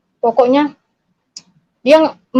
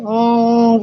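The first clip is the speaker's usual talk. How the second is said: drawn-out hummed moan, imitated; imitated groaning. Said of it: "masih ngeraung-ngeraung".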